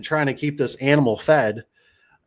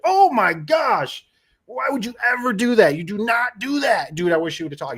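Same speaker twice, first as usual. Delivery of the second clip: incredulous scolding; 10 semitones higher than usual. Retold or imitated. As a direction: tell him off in disbelief. Scolding friend over debit card.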